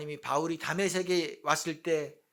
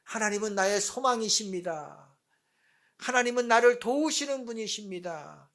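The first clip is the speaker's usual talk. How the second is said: raised declaration of faith; proclaiming; 3 semitones higher than usual. Acted. Psalmist declaring God as his hope, mildly raised proclamation. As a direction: declare it outward, firmly. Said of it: "라고 외쳤어요".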